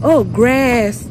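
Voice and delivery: "grass" with a fronted American vowel; "grass" said with the a of "cat"; American pronunciation. Retold or imitated. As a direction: mimic Americans saying "grass". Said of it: "and they were like".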